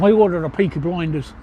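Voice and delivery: a light Birmingham accent, the Black Country twang. Shown as a demonstration. Streamer showing chat the line in a light Birmingham accent. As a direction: say it like a Brummie from Peaky Blinders. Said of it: "do it in a Birmingham accent, which is like this".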